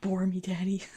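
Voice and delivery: breathy playful whisper ending in a giggle; teasing whisper. Pretend. Streamer whispers a cheeky tease to chat, then giggles.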